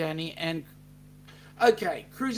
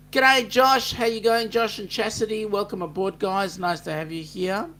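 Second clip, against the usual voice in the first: much higher and louder g'day; excited greeting; 6 semitones higher, 7 dB louder than usual. Real, not acted. Host welcomes a new viewer, excited loud greeting. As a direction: call out a big welcome.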